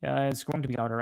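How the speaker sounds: normal talking voice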